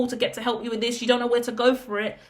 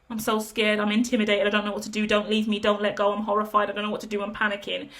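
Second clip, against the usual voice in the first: mock scared panic; faster than usual. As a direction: play at being panicky, a touch fragile. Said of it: "anxiety and panic attacks".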